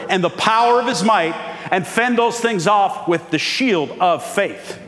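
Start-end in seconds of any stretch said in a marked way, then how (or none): 1.9-4.8 preaching shout. Real, not acted. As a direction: drive it home to the congregation. Preacher driving home the point.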